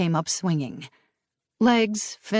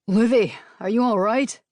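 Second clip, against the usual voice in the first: urgent concern; 5 semitones higher, 5 dB louder than usual. A narrator's reading. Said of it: "Bentley asked".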